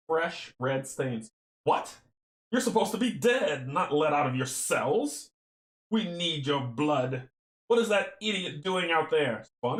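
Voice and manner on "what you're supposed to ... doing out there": villain voice. Acted. Cultist voices surprise at prisoners.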